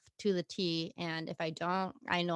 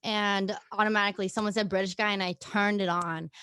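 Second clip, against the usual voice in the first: put-on British accent, louder; 2 semitones higher, 6 dB louder than usual. Shown as a demonstration. Guest recalls switching it on at work, British accent. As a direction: keep the story going in a British accent. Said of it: "see how I just switched it off".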